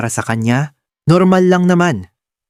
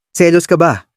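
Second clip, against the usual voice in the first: a light joking jab; 3 semitones higher than usual. Acted. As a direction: ask it half in jest. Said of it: "pabiro kong sabi".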